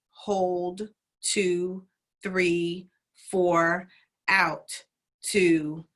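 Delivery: brisk breath count; counted a bit fast. Shown as a demonstration. Teacher demoing the count, a little too fast. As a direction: run through the count quickly. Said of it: "And I said that kind of fast".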